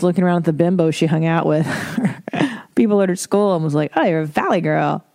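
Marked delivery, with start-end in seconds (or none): 4.0-5.0 lightly voiced Valley Girl. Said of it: "I still talk like a Valley Girl".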